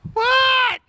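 high startled what; surprised. Real, not acted. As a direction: squeak it out in surprise. Kid crashes, surprised reaction.

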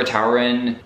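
Tauren said TOW-ren, first syllable like "tower"; unsure name pronunciation. Shown as a demonstration. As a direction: try Tauren with an OW vowel. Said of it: "don't know how to say".

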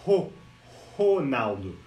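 "Ronaldo" broken up, first syllable "ho" isolated; Portuguese R as H. Shown as a demonstration. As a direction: say "Ro-" as "ho", pause, then "Ronaldo". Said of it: "o R no português".

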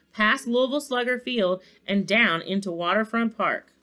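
animated storybook reading; story narration. A narrator's reading. Narrator follows the sleigh's night flight, story narration. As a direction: read it aloud with measured drama.

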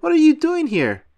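startled friend shouting a demand; shocked yell. A narrator's reading. Woken Patrick yelling.

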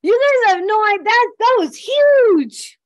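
high, loud, slowing on huge with a laugh; overwhelmed wonder. Retold or imitated. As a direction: tell them it was huge, near laughing tears. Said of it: "I was like".

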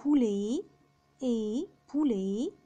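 "بولي" ending in e, t silent; slow "إي", then "بولي" ending alike. Shown as a demonstration. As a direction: say French "بولي", poulet, without the t. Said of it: "أو تي بيتنطق إي".

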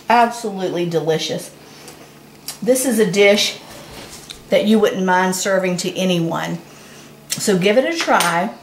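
talking while chewing; words round a mouthful; mouth full. Real, not acted. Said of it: "talking with my mouth full".

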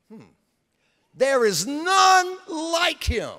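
proud God. Acted. God voiced boasting of Job.

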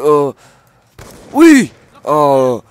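screaming yes, very high and very loud; triumphant scream. Real, not acted. Gamer lands his first kill, triumphant scream. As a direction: explode with joy at the kill.

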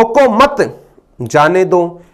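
"रोको मत" rising, then a pause before "जाने दो"; pause after मत. Shown as a demonstration. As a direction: break the line after "रोको मत". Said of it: "इसका अर्थ क्या हो गया?".

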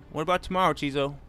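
calling out. Real, not acted. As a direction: call it out to a friend across the convoy.

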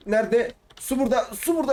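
high excited squeaks on finding it; excited squeal. Real, not acted. Gamer spotting the water in time, high excited squeal. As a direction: squeal with relief. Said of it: "ben cidden çok değişik sesler çıkartıyorum bu oyunda".

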